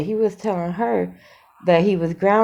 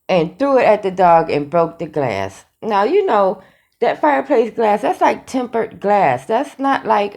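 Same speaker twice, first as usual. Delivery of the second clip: louder, emphatic disbelief; worked up; 5 dB louder than usual. Real, not acted. Vlogger disputing his dog toy story, loud and worked up. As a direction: punch out the argument, all worked up. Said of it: "I'm getting all worked up".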